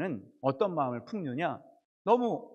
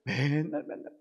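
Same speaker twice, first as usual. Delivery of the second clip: imitated endless complaining, trailing away at the end; mock grumbling; 3 semitones higher than usual. Preacher mimics Israelites complaining to Moses, grumbling. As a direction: grumble on like a discontented crowd. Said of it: "하도 막 불평불만이 그냥 끊임없이".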